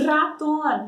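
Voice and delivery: "ratón" slowly, with a trilled initial R; rolled R, slow. Shown as a demonstration. Teacher showing Spanish "ratón" with a rolled R, slowly. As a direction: roll the R at the start of "ratón". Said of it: "Ó como a gente fala".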